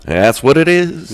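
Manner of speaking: high, slow, exaggerated English accent; anglophone accent. Shown as a demonstration. Guest confirming his anglophone accent, high drawn-out showy English. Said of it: "c'est un accent anglophone".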